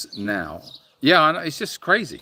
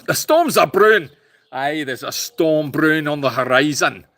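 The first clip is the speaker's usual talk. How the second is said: put-on rustic weather prophet; mock storm-warning character; 2 semitones higher, 5 dB louder than usual. Host warns viewers of a coming storm, hammed-up character voice. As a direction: announce it like a hammy old forecaster.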